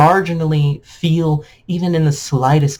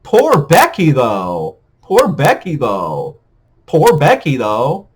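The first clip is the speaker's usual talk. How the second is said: sarcastic pity; 3 semitones lower, slower than usual. Retold or imitated.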